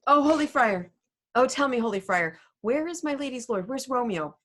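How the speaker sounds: put-on high, excited old nurse bursting in. Teacher reads the Nurse's part.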